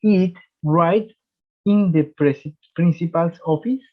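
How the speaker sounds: very slow, drawn-out English question; slow classroom demo; slow model question. Shown as a demonstration. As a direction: read it out slowly for learners. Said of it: "¿Cómo se escucharía?".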